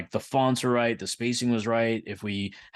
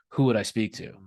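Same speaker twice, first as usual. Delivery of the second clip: straight, confident monotone delivery. Retelling phoning to reach vendor management, retelling a straight, confident voice. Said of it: "I went in with a very straight, confident voice".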